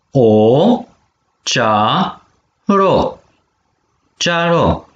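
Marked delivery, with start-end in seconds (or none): 0.1-3.2 syllable by syllable. Shown as a demonstration. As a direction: model cea - ro slowly for repeating. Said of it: "Pene vitumen palalman de acana". (pe silabe: cea, ro)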